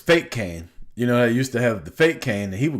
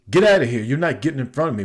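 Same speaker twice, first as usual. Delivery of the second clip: retold shout at the line-cutter, a bit louder and higher; old man yelling at a line-cutter, mock shout; 3 semitones higher, 3 dB louder, faster than usual. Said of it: "Like, that loud".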